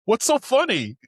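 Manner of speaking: mocking Bondi, high anime squeal; mock squeak. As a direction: whine like a cartoon.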